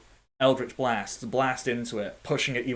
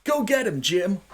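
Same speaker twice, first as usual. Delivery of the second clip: cheering ally; 8 semitones higher than usual. Pretend. Player's bard cheering on his partner Jim in battle, high cheer. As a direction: egg your partner on. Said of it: "Freddy, you're like".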